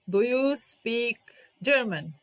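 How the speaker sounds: slow question. Shown as a demonstration. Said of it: "expect yes or no question".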